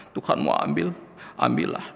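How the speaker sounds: understated imitation of weeping surrender; retold tearful prayer. Mother praying over her dying husband, retold tearful prayer. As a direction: quote a prayer through mild, acted tears. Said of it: "Dia nangis".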